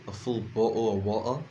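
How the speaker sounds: "a full bottle of water" with a dropped British t, "bo'le of wa-tah"; playful British accent imitation; light British accent. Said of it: "as my British friends would say".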